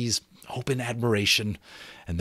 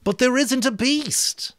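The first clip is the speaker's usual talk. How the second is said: raised, higher, slow insistence; insistent; 4 dB louder than usual. Acted. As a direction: hammer the point home. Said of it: "to make the point, loudly and again".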